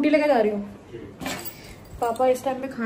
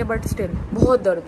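slow moan; 4 dB louder, slower than usual. Real, not acted. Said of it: "इतना दर्द था मेरी body में".

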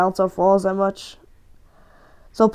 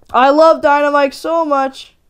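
LOVE pushed out louder and higher; louder gushing love; 5 semitones higher, 4 dB louder than usual. Shown as a demonstration. Gamer gushing louder and higher about Dynamike.

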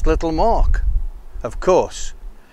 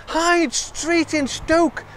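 put-on excited girl; 14 semitones higher, slower than usual. Excited child explaining.

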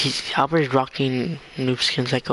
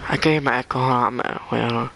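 echoey voice; faster than usual. Real, not acted. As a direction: voice with an echo. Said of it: "Why do I sound like an alien?".

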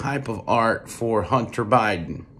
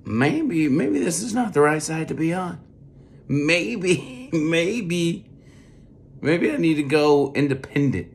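higher pitched second-guessing inner voice; doubting voter; 7 semitones higher than usual. Retold or imitated. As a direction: voice a doubting supporter. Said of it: "you as a supporter say to yourself".

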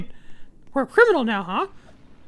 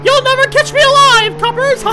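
gangster taunt; 8 semitones higher, 9 dB louder than usual. Pretend. Taunting the police.

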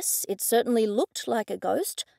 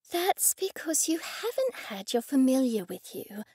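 patient; 2 semitones higher, 4 dB quieter than usual. A narrator's reading. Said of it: "Laura said patiently".

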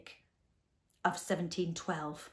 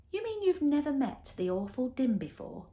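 high-pitched incredulous question; surprised; 7 semitones higher than usual. A narrator's reading. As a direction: start high in disbelief. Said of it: "in a surprised tone".

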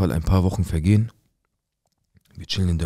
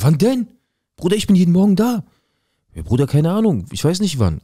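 much higher, lively back-and-forth quote; high excited retelling; 10 semitones higher, 3 dB louder than usual. Retold or imitated. Friend telling him he sees her too, voiced high and eager. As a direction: pitch the cousin's answer up high and eager.

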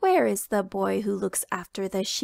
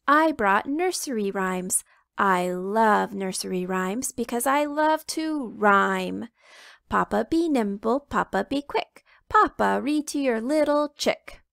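playful rhyming chick; lightly voiced little chicken. Little chicken rhyming to get Papa reading, lightly chirpy.

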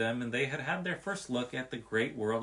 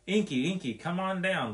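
high, louder pleading call up a tree; 6 semitones higher, 4 dB louder than usual. A narrator's reading. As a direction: coax the porcupine down, begging. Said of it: "Bobby pleaded".

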